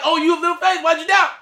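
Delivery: Jesus's rebuke exclaimed loudly and high, in disbelief; amazed retelling of Jesus. Retold or imitated. Preacher marvelling at Jesus's words to Peter, loud. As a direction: belt it out like you can't believe he said it. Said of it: "and Jesus is like".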